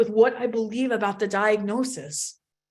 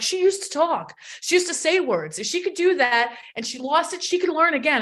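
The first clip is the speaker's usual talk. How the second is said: getting upset; 6 semitones higher than usual. Real, not acted. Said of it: "I don't know why I'm getting upset here".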